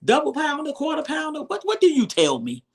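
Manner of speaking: high, cheeky mock voice; a light sassy send-up of the daughter; imitating the daughter's mock reply about burgers. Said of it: "I know their daughter like".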